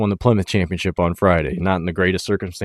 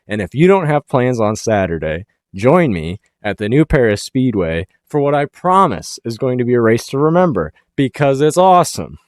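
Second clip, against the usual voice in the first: real excitement, pitched up and building; fired up; 4 semitones higher, 3 dB louder than usual. Real, not acted. Host urging viewers to join him at the race, fired up. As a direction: build fired-up hype toward a higher, louder finish. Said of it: "Fired up. Got fired up".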